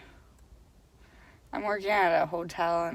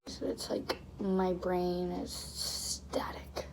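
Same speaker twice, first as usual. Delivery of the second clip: whispering; 3 semitones lower, 6 dB quieter, slower than usual. Real, not acted. Tired, drained vlog confession.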